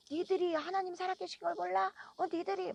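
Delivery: high-pitched accusing cry without extra volume; imitated homeless man's outburst. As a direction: echo his shouted rebuke in a high, held-back voice. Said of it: "그분의 그 소리가".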